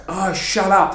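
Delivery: annoyed complaint. Retold or imitated. Child to the neighbours' barking dog, mildly exasperated. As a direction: snap mildly at a noisy dog. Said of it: "yelling at the dog".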